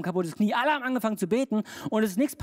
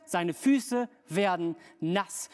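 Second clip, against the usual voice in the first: slow punchline; 3 semitones lower, much slower than usual. Acted. Slow punchline after "was passiert?.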